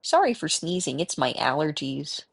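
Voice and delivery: light mock mother apologizing for sneezing; imitating mother. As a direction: tease her mother with a mild put-on voice. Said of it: "That's the voice that I do".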